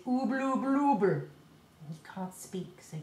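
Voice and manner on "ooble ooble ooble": mild gummed-up mumble; toffee mumble. Shown as a demonstration. Reader showing the listener Moonface's toffee mumble. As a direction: mumble through a mouthful of toffee. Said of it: "all he can say is".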